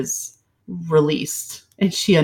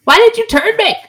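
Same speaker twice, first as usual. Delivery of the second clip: angry whining to him. Pretend. Pretend angry wife demands husband turned her, building. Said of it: "I'm gonna be angry because I'm gonna be like".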